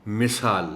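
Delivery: مثال said with a clear i under م; clear pronunciation. Shown as a demonstration. Teacher repeats مثال for the class. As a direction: say مثال crisply, mi-saal. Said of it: "میم کے نیچے کی زیر کو".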